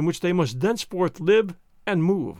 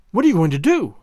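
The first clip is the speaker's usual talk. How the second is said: louder frightened question; alarmed cry; 6 dB louder than usual. Acted. Wife sees husband loading the shotgun, loud and alarmed. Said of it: "she cried".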